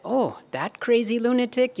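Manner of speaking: high-pitched mock dismissal; dismissive. Villagers to Namdev about the guru, dismissive.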